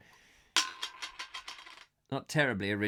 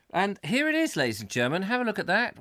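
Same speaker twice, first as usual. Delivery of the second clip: grand reveal; 5 semitones higher, faster than usual. Real, not acted.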